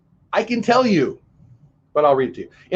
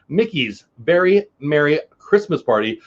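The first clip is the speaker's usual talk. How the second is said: Mickey's Very Merry Christmas Party with every syllable crisp; slow enunciation. Shown as a demonstration. Vlogger determined to get the name right, enunciating carefully. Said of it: "I'm talking slow and trying to enunciate".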